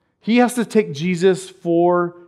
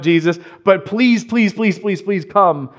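begging; 3 semitones higher than usual. Retold or imitated. Voicing father's begging.

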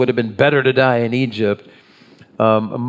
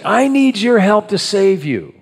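higher-pitched, put-on plea; mock pleading God; 7 semitones higher than usual. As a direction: raise the voice in a mock appeal. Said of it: "God is never saying".

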